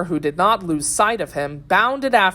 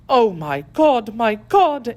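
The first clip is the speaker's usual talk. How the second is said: high, fervent invocation; impassioned lady's appeal to God; exclaimed prayer; 6 semitones higher, 4 dB louder, slower than usual. A narrator's reading. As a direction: cry out to heaven, pitch raised. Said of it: "exclaimed the lady".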